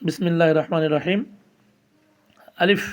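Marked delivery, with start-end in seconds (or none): 2.6-2.8 Arabic alif read short. Shown as a demonstration. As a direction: clip the vowel in আলিফ. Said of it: "বলতে হবে আলিফ".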